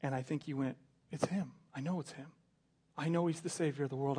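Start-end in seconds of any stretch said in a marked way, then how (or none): 1.1-4.2 soft, awed, certain; hushed realisation. Acted. The thief realises Jesus is the Savior, hushed awe. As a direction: whisper the discovery to yourself.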